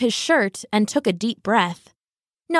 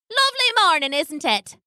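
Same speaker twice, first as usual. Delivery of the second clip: much higher, cheery washerwoman; crowing washerwoman; 6 semitones higher, faster than usual. Acted. A washerwoman greets Loosemore, high and cheery. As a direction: sing out a bright greeting. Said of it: "crowed a washerwoman".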